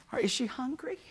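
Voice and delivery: hushed whisper. Retold or imitated. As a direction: whisper so nobody wakes. Whispering at night by baby.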